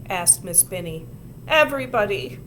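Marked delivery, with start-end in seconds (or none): 1.5-2.4 tearful. A narrator's reading. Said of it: "said Susan tearfully".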